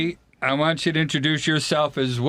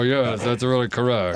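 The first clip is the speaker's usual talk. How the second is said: lower, through clenched teeth; 4 semitones lower than usual. Retold or imitated. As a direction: say it with your teeth clenched together. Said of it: "talk with my teeth clenched and go".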